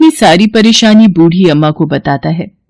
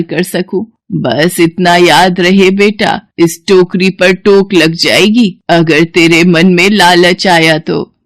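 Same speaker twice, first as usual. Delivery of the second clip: put-on slow, frail old woman cautioning; slow old woman's warning. Old woman warns Somu against greed, slow and frail. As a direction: lay the warning down slowly like a wise elder.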